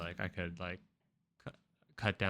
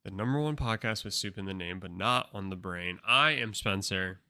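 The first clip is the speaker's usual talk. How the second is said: punchy opening, hitting the first word loud; podcast host intro; 5 dB louder than usual. Acted. Host welcoming listeners back to the show, announcer delivery.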